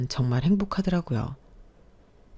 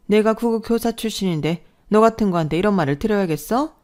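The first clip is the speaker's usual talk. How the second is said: a higher, proud scolding; haughty mother-in-law; 5 semitones higher, 4 dB louder than usual. Acted. Mother-in-law lording her teacher career over her, haughty. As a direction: look down on her from your teacher past.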